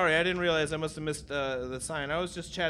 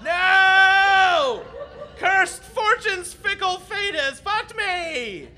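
melodramatic wail; 11 semitones higher, 6 dB louder, much slower than usual. Acted. Captain's melodramatic despair.

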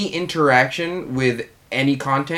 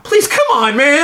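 high, loud pleading protest; exasperated outcry; 13 semitones higher, 5 dB louder than usual. Real, not acted. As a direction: throw up your hands, loud.

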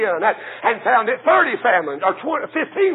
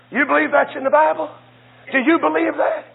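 higher, fast challenge; challenging question; 5 semitones higher, faster than usual. Real, not acted. Preacher to his congregation, higher and challenging. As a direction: throw the question at them.

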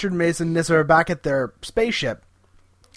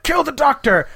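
mock command; 8 semitones higher, 3 dB louder than usual. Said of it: "And it's like".

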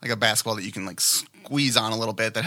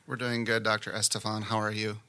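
bored, toneless consultant on the phone; deadpan, no interest at all; flat monotone voice; 5 dB quieter than usual. Acted. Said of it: "Did you like my flat monotone voice?".

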